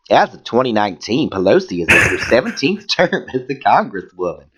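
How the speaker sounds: campy Southern reading voice; lilting hammed-up Southern accent; put-on Southern accent. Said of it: "keep reading that voice".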